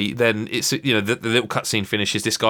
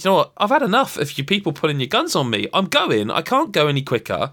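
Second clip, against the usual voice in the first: higher-pitched, fed-up retort; mild exasperated protest, pitched up; retold exasperation; 5 semitones higher than usual. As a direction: act out having had enough, without shouting. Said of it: "he caught me on a bad day".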